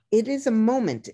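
"a" lifted high in "it is a moment"; stress on a. Shown as a demonstration. Host explains the phrase to guests, stressing "a". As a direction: lean on "a" in "it is a moment". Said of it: "because moment means".

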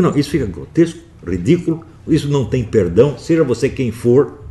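bronca enfática, em tom alto e agudo; condenação indignada. Retold or imitated. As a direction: condene sem perdão, com a voz exaltada. Reconta a condenação ao poeta. (indignado, repreendendo com veemência)

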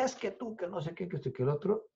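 soft, high mock rant; retold yelling. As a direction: imitate his yelling without the volume. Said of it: "él estaba gritando". (gritos imitados, bajitos y agudos)

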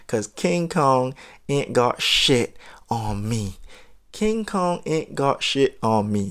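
a hint of defiant movie tough guy; mild Denzel-style bravado, slowing at the end; Denzel Training Day defiance. Lightly voiced Denzel defiance toward the chaperone on the table. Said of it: "that Denzel Training Day moment".

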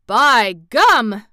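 a loud startled "By gum!"; gasped surprise. A narrator's reading. Uncle Henry startled at the court, loud gasped exclamation. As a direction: blurt it out in shock. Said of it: "gasped Uncle Henry".

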